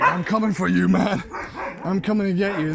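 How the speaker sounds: hammed-up dog voice at the fence; mock menacing dog. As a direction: voice the barking dog as a tough guy. Voicing barking dog at fence.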